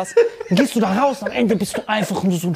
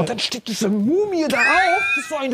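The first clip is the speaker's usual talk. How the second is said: laughing; 5 semitones higher than usual. Real, not acted. Laughing while retelling.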